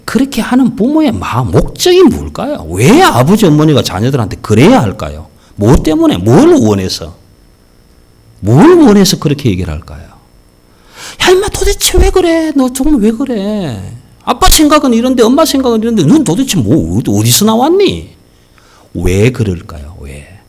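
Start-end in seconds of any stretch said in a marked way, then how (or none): 0.1-10.1 loud, high rising sermon questions; fiery preaching. Acted. Preacher challenging the congregation, loud and fervent. 11.2-18.2 high, loud exasperated scolding; exasperated parent. Acted. Parent berating a wayward child, exasperated and loud.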